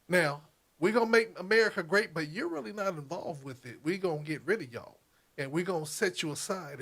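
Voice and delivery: lightly voiced Southern sweet-talker with a threat; understated Southern accent, mostly in his own voice; best Southern voice. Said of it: "my best, uh, Southern voice that I can do".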